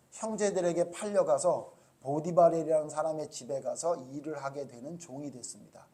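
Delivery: formal, measured spoken prayer; leading a congregation in prayer. Real, not acted. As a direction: address God earnestly and evenly. Leads closing prayer.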